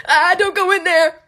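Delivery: high, loud spooky warning; haunted house spook. Acted. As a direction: scare them at the door. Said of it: "trying to scare people".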